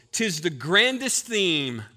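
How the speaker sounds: slow, savoring recitation; reciting hymn lyric. Shown as a demonstration. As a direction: pastor quoting the hymn's opening line slowly. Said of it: "I love how it opens".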